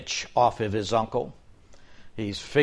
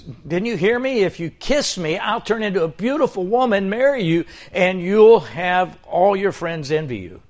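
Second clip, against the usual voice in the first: much higher, insistent frog voice; exasperated frog; 5 semitones higher, 3 dB louder than usual. Acted. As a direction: repeat the offer, impatient. Frog repeats the offer.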